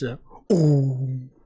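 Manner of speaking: drawn-out "ooh" as a horror sting; horror game stinger. Acted. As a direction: mimic a spooky game's musical sting. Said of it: "the horror game stinger noise".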